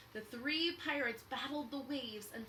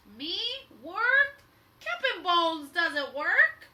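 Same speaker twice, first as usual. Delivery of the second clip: loud, slow, haughty scoff; captain mocking the idea of digging; scoffing pirate; 7 semitones higher, 16 dB louder, slower than usual. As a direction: laugh off the very idea.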